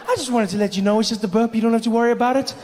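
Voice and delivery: high, reassuring patter; voice of the body. Retold or imitated. Body telling comic not to worry, high reassuring voice. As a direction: reassure a little too innocently. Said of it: "my body was like".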